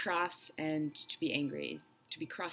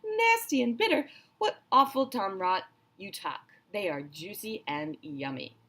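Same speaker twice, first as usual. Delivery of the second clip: much higher, louder mocking monster voice; scoffing crocodile; 3 semitones higher, 7 dB louder than usual. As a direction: ridicule the silly idea, greedy and loud. Greedy crocodile scoffs at friend.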